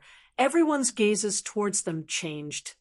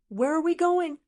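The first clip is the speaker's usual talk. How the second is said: lightly voiced taunting demon, pitched high; demon voice ringing out; 8 semitones higher than usual. A narrator's reading. Rock demon calling from below to fleeing cultivators, lightly acted taunt. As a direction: call out a high, challenging question. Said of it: "a voice rang out from below".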